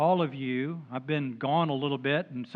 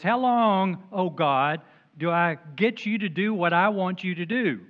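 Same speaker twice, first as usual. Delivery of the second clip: whiny demand; 3 semitones higher, 4 dB louder than usual. Acted. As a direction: press God like a spoiled child. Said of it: "That's kind of the way I read that".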